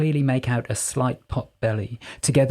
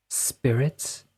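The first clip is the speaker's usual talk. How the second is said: resigned; 3 dB quieter than usual. A narrator's reading. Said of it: "Archie sounded resigned".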